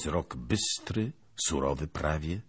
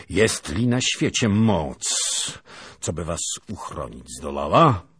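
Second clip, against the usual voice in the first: stern threat; 3 semitones higher, 9 dB louder than usual. Acted. Lieutenant challenges the family, stern and loud. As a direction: defy them with authority.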